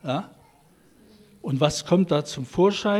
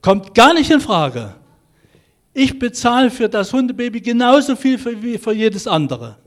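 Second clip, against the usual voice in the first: put-on louder and higher, a boy flaring up in protest; indignant outburst; 7 semitones higher, 7 dB louder than usual. Boy Max refuses the free puppy from the shopkeeper, indignant and louder. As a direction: snap back, refusing the gift. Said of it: "Da fährt der Max auf".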